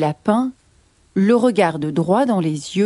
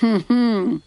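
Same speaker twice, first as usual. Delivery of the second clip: sceptical lion rumble; growling lion. Acted. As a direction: grumble a doubtful hum like a lion. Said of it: "grogne le lion".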